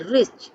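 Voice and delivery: रिच in one single vowel sound; single-syllable demo. Shown as a demonstration. Teacher showing students one vowel sound, रिच as one syllable. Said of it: "मुंह से एक ही स्वर ध्वनि निकल".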